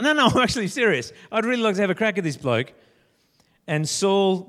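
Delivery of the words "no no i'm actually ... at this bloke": eager David. Acted. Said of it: "And David's like".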